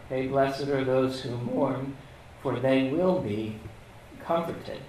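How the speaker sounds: "will be" leaned on, slow and deliberate; stress on will be. Shown as a demonstration. Preacher stressing "will be" to the congregation. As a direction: slowly lean into "will be". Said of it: "It's the will be part".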